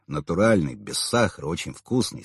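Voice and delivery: plain reading voice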